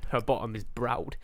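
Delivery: soft breathy whisper. Real, not acted. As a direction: whisper it like a secret. Whispered aside.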